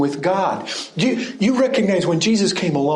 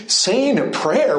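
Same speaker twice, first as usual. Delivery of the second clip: Saying leaned on, slow and higher, mocking disbelief; incredulous question; 5 semitones higher, slower than usual. Preacher mocking the phrase in slow disbelief. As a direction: throw "Saying a prayer?" back in slow disbelief. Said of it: "It's like".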